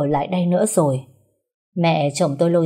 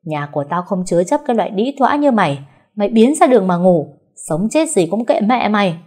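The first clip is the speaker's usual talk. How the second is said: angry refusal; 3 semitones higher, 4 dB louder than usual. Acted. Mother-in-law refusing.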